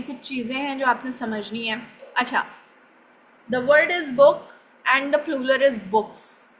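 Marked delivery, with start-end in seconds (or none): 3.5-6.5 books said with a clear s at the end; s sound plural. Shown as a demonstration. Teacher to class: books with a crisp final s. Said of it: "यहाँ पे एस sound आया है बुक".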